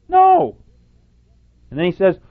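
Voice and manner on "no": loud, very high quoted "No"; emphatic no. Retold or imitated. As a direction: belt out the answer as the quoted preacher. Answers quoted rhetorical question emphatically.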